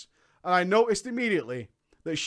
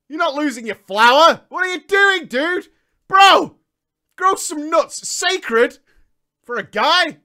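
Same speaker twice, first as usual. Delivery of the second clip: mock macho lecture; 8 semitones higher, 10 dB louder than usual. Mocking macho old-school guy.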